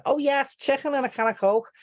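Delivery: high, hammed-up fake Scouse; overdone Scouse in a high voice; mock bad Scouse. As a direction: imitate an amateur attempting Scouse. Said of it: "don't know how to do accents".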